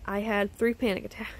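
real small laugh breaking into the end; nervous laugh. Real, not acted. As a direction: let a laugh slip out on attacks. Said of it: "it's not funny".

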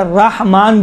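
رحمان with open r, no waw colour; careful unrounded first syllable in رحمان; pronunciation variant demo. Shown as a demonstration. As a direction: say رحمان slowly with a plain open 'ra'. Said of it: "بھی صحیح ہے".

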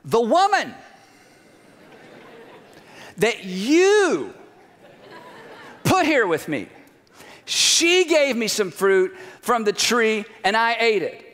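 a hint of a sulky husband; whiny blaming Adam. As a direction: pass the buck with a sulky whine. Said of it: "The man said".

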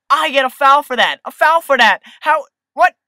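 loud, high indignant protest; outraged disbelief. Real, not acted. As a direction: yell at the ref's decision. Outraged at referee call.

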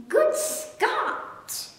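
very high astonished gasp. A narrator's reading. Staggered duke gasping at the cherries, very high. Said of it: "he gasped".

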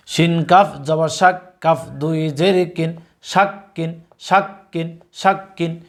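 teacher's recitation, letter by letter; slow spelling drill. Shown as a demonstration. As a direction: spell each letter slowly, then say the word thrice. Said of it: "একবার বানান করব, তিনবার উচ্চারণ করব". (ধীরে বানান করে তিনবার উচ্চারণ)

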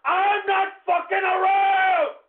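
yelling it twice in real anger; furious repeated yell; angry shouting. Real, not acted. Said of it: "do you hear my voice?".

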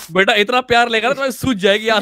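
talking through laughter; laughing. Real, not acted. Warning a friend about the zombie's love, laughing. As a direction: tease with a laugh in the voice.

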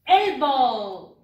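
Elbow said loud and clear; English elbow. Shown as a demonstration. Teacher leading class to repeat Elbow. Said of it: "Aquí está, miren".

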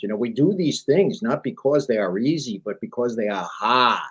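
put-on light Boston accent on the JFK quote; Massachusetts accent, lightly done; JFK impression. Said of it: "in his inimitable Massachusetts accent".

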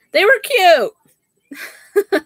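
high, very slow words through a laugh. Real, not acted. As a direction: giggle while admitting it was cute. Laughing about her gift.

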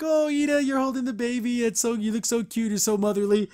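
high, cooing mock gush; gushing imitation. Gushing over Ida holding baby.

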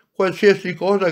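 grido entusiasta, più acuto e più forte. A narrator's reading. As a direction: ripetilo più in alto, al culmine della gioia. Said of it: "gridò la piccola anima". (la piccola anima insiste gridando, ancora più acuta)

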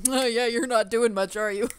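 mocking quote. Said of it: "everyone's like".

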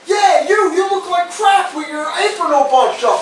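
high, insistent drill-sergeant telling-off; military voice. Retold or imitated. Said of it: "military voice goes".

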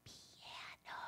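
very soft whispered word; whispered "Piano". Shown as a demonstration. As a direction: breathe it out to the class. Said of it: "Let's whisper".

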